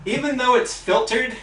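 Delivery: loud, high, slowed pointed rant; exasperated emphasis. Real, not acted. Telling viewers about the dust, slow loud emphatic. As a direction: spell it out slowly, fed up with dust.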